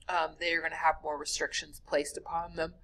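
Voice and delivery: talking through a yawn; words stretched by a yawn. Real, not acted. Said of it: "apparently I can't stop yawning".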